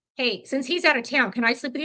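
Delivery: ordinary talk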